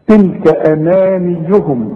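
slow tajweed reading; measured Quranic recitation. Shown as a demonstration. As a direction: chant it slowly. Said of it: "يعني الوقف هنا أحسن".

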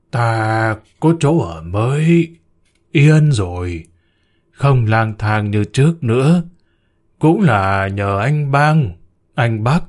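put-on slow, mildly trembling old voice; a touch of fear, slowly; trembling old man. Old man answering the summoned spirit, mildly trembling and slow. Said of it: "Cụ Chu run bần bật".

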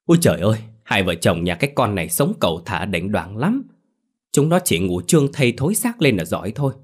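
a hint of a spiteful village gossip; mildly scornful reproach; understated sharp-tongued gossip; lightly voiced gossip. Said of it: "người độc mồm độc miệng thì trách móc".

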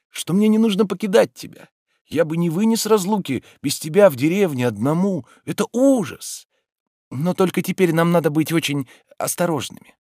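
a hint of a fretful gentleman; lightly voiced Oblomov. A narrator's reading. Oblomov to Olga.

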